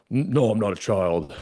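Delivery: tearful denial, hammed up; mock tearful. Telling mentor he's no child, mock tearful. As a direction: protest like a child wiping tears away. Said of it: "like, wiping the tears away".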